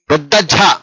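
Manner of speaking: "ఝ" said as a heavy, breath-backed j; pressed aspirated sound. Shown as a demonstration. Teacher modelling for learners how to press "ఝ" with aspiration. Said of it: "ఒత్తి పలకాలి".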